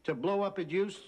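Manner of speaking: incredulous. Acted. Co-host learns host wanted out of contract, high incredulous protest. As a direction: piece it together, growing indignant. Co-host realises he was used.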